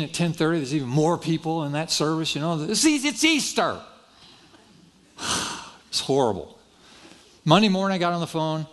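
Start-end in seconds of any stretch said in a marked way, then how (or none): 2.6-6.6 slow, high-pitched mock dismay; mock exasperation. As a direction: stretch it out high in comic exasperation. Repeats his dismay at second service.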